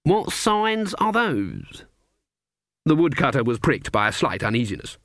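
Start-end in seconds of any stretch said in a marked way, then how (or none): 0.0-1.8 put-on high, sweetly innocent old woman; sweet old lady. A narrator's reading. Granny fakes innocence to the woodcutter, sweet and high. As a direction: play the harmless old granny, higher.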